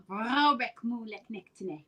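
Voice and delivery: Scottish tongue-twister with rolled R's; Scottish accent. Shown as a demonstration. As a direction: demonstrate the Scottish trill. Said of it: "You gotta roll the R's".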